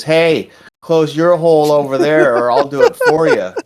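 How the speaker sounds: loud, high in-character threat; threatening retort. Acted. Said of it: "looks at Switchblade and says".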